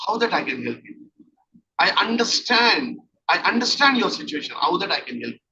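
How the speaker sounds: gentle, caring question with a small smile; loving tone. Shown as a demonstration. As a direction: soften the voice and ask kindly. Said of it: "Asking in a loving tone with a, a small smile in the face".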